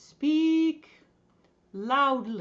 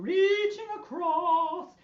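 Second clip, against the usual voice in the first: slow, loud, raised lilting swoop; very sing-song; 6 semitones higher, 5 dB louder, slower than usual. Shown as a demonstration. Teacher urging the group to be silly, very sing-song. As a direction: lilt it playfully, half sung. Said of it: "Be very sing-song".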